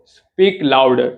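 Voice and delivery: very slow, word by word; slowly, so students can repeat; slow teaching read. Shown as a demonstration. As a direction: drag it out for learners. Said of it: "જોરથી બોલો".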